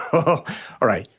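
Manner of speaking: retold angry order. Doctor retelling throwing out the mother, angry. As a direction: order her out in a retold flare of anger.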